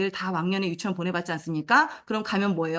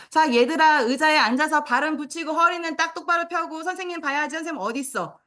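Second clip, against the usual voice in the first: detailed teacher instruction; 7 semitones higher than usual. Shown as a demonstration. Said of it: "이렇게까지 해줘야 되는 거예요".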